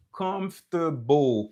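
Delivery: comfortable drawn out slowly as "cumf-ter-bowl"; true pronunciation. Shown as a demonstration. Teacher modelling the real pronunciation, slow and careful. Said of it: "se konsa vreman pwononsyasyon".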